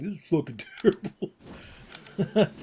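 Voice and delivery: future exasperation. Retold or imitated. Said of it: "and I'm like".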